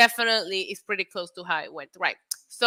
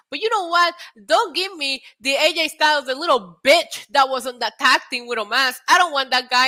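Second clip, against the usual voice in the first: high, loud, worked-up wrestling promo; hammed-up confrontational rant; heated challenge; 4 semitones higher, 5 dB louder than usual. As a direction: re-enact a wrestler laying down terms emphatically. Acting out Edge's challenge to rival.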